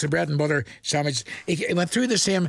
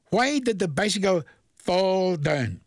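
slow riddle read; slower than usual. Shown as a demonstration. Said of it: "Now think of it".

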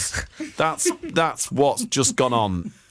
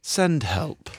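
ordinary delivery

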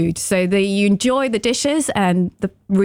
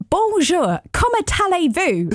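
beginner French; 9 semitones higher than usual. Retold or imitated. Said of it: "it was like".

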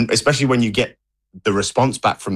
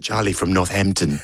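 put-on South African accent. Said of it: "he says it in his South African Johannesburg accent".

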